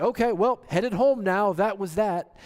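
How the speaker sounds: mock-casual man heading home; careless Levite. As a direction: shrug it off like nothing happened. Voicing the Levite's casual morning.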